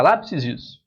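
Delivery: "lápis isso" com terminação extra colada, "lápisizus"; plural errado de brincadeira. Shown as a demonstration. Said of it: "Não, não tem plural". (plural errado "lápis isso", como palavra única)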